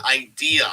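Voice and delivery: "idea" set apart and deliberately emphasized; stress on idea. Real, not acted. Podcaster qualifying what he loves about the booking, stressed "idea". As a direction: lean on the word "idea", sounding it out. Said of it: "I wanna stress that word".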